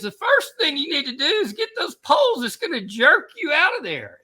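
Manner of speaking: retold holler of urgent advice; shouted instructions. Instructor telling dangling skier about his poles, shouting up.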